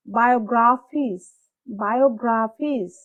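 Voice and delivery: Biographies slowly, with OG-RA punched; stressed middle syllable. Shown as a demonstration. Teacher drilling the word twice, slow middle stress. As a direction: stretch Biographies, hitting the middle harder. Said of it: "stress সহকারে পড়ব".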